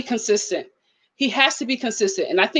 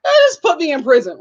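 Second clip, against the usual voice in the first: mock deadbeat dad; 5 semitones higher, faster than usual. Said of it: "parents who are like".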